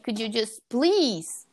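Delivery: slow, drawn-out plea; pleading. Retold or imitated. Daughter begging mom for help, slow drawn-out pleading. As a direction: stretch out each please, imploring. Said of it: "I'm looking for some kind of help".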